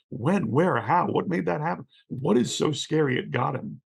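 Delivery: mock-urgent volley of questions; outpouring of questions. Imitating friends on social media demanding details, urgent questioning. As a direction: pepper them with incredulous questions. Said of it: "there was this immediate outpouring".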